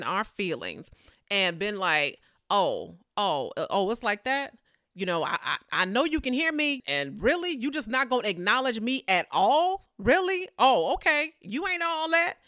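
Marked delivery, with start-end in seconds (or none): 2.5-12.3 indignant, sassy, mock hurt; a snubbed petitioner getting sassy with Jesus; offended sass. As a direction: play the offended woman, half joking.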